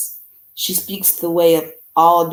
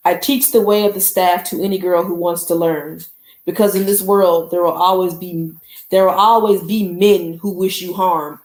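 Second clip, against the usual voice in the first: lightly voiced commanding elder, a little louder; stern teacher voice; 2 semitones higher, 5 dB louder than usual. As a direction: read it like a general addressing her troops, a touch fervent. Mama Agba's speech read aloud.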